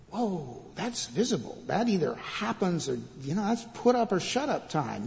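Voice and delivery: softly voiced mock alarm; a hushed, lightly acted warning; worried onlooker's aside. Onlooker warning Jesus about a visible test, hushed mock alarm. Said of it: "I would have said if I'd been there".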